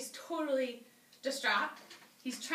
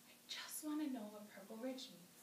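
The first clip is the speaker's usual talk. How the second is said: hushed, much softer voice; whisper voice; 10 dB quieter than usual. A narrator's reading. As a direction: say it very softly, like a timid confession. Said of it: "in a whisper voice".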